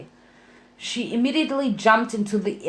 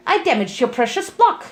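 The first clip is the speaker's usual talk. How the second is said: triumphant; 3 semitones higher than usual. Acted. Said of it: "Pinky cried".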